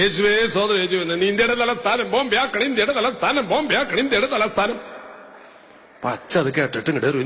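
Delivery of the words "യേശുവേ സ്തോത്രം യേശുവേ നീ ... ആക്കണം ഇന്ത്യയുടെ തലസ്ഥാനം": put-on high, loud, earnest childlike pleading; loud child prayer. Child prays aloud in church for Bombay as capital, high and earnest. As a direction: beg like a child cramming a wish. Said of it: "കുട്ടി ഉറക്കെ പ്രാർത്ഥിക്കണേ".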